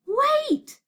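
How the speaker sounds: high, sudden cry; urgent exclamation. Acted. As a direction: exclaim as an idea strikes. Sudden idea, calling a halt.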